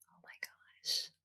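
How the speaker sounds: breathy whispered aside. Real, not acted. Whispering to listeners after the LBJ quote, an awed whisper. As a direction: whisper it to yourself in awe. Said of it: "whispered aside".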